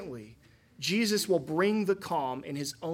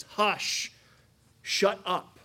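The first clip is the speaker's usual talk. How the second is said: curt hush; 3 semitones higher, much slower than usual. Retold or imitated. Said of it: "strong words".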